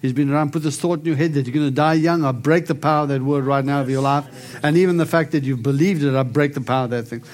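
healing declaration. Acted. Prays healing over the lady.

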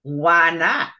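impolite sarcastic question; snide, rude retort. Acted. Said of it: "sort of impolite-like and sarcastic".

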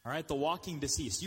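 P=A; repeated for emphasis. Real, not acted. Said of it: "You heard me right".

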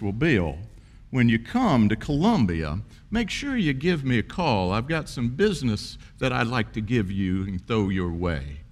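imitated Southern accent, swooping pitch; lightly put-on, drawn-out Southern voice; Southern drawl. Governor inviting a young graduate to call, in a Southern drawl. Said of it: "he said in that wonderful Southern voice".

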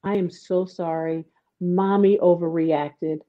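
calm him down slowly and gently; gentle apology. Retold or imitated. Mother apologizing to her son, slow and tender.

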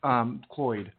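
halting, unsure of his own voice; talking without hearing himself in the headphones; can't hear himself. Real, not acted. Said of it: "it's hard to talk when you can't hear yourself".

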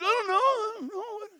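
high falsetto woman voice; Delilah. Retold or imitated. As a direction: play innocent in a mock girlish pitch. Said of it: "This is Delilah's voice".

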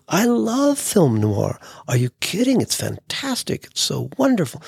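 gushing enthusiasm. Retold or imitated. Young Larry gushing to Hef about film noir, in an excited voice. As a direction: rave about it to impress.

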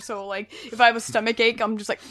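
ordinary talk

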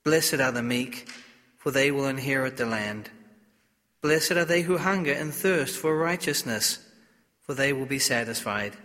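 solemn liturgical reading voice; Gospel reading. Acted.

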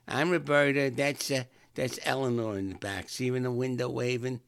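retold woman's hearty introduction; loud introduction. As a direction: call out the introductions. Girl introducing herself and friend.

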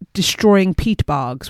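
slow, lilting Irish accent. Shown as a demonstration. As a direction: say it like a fond Irish narrator. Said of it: "which I have to say in an Irish accent".

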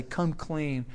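low, gentle pleading; calm, tender call; gentle appeal. Real, not acted. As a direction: invite them softly to come back. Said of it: "I gently want to pull us back and say".

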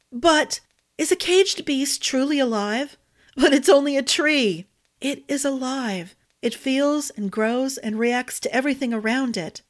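a hint of a pleading young woman; character voice.

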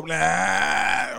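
drawn-out "blah" buzzer; demo buzzer noise. Shown as a demonstration. Host showing contestant a ring-in noise, demo buzzer. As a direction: make a mouth buzzer noise. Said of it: "just go".

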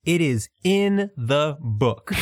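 "it is in the book" spaced out slowly; emphatic word-by-word. Real, not acted. Host complains every metaphor gets printed, "in the book" slow and emphatic. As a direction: land each word of "in the book" separately. Exasperated at lack of editing.

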